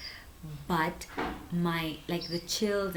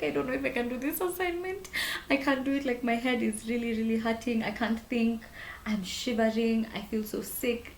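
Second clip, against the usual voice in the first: higher, pleading sick whine; whiny sick complaint; 6 semitones higher than usual. Retold or imitated. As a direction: complain like you're feverish and miserable. Texting friends while feverish.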